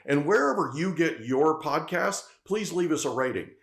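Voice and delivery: host wrapping the show with an upbeat sign-off; podcast outro read. Acted. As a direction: sell the subscribe ask.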